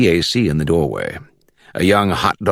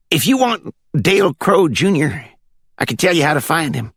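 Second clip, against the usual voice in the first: put-on country accent from the Glades; 10 semitones higher than usual. A narrator's reading. Caller on speakerphone checking for the judge, high country accent. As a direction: ask it in a high rural Florida accent. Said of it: "With that country accent".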